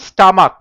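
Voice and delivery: স্টামাক with CH sounded as a hard K. Shown as a demonstration. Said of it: "সিএইচটা কয়ের মতো উচ্চারণ হচ্ছে".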